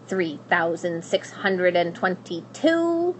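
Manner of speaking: slow, dry counting, barely looking up; a hint of a bored old witch; lightly voiced witch counting. Witch counting gold, ignoring the princess, lightly voiced.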